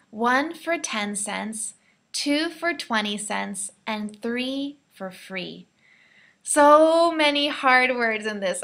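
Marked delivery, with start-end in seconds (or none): 0.1-5.7 slow, careful teacher read; slow model reading. Shown as a demonstration. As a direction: read it slowly and clearly for learners.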